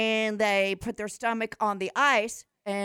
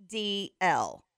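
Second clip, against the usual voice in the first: each letter spelled out slowly; slow spelling; much slower than usual. Shown as a demonstration. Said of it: "Spell that again".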